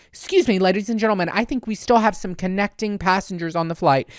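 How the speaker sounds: lightly voiced flight attendant; intercom announcement. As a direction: imitate a polite cabin announcement. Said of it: "comes over the intercom and she goes".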